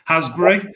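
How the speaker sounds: 'Hasbury' with a short flat a, HAZ-bree; short "haz" as locals say it, light h; 'Hasbury' as said in the Black Country; Black Country pronunciation. Shown as a demonstration. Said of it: "that's pronounced in our Black Country dialect".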